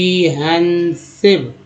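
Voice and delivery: कॉम्प्रिहेंसिव slowly, broken into com-pre-hen-sive; syllable-by-syllable pronunciation. Shown as a demonstration. Teacher joining word parts for learners, कॉम्प्रिहेंसिव sounded out slowly. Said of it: "सीएम को कम बोलते हैं".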